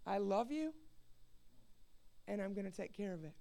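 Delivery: measured, gentle promise with pauses; God speaking. Retold or imitated. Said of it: "And he said".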